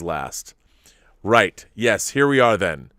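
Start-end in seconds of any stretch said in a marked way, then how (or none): 0.0-0.5 whispered ending. A narrator's reading. Narrator closing the introduction in a whisper. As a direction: drop to a bare whisper on the last word. Narrator ends line dropping away.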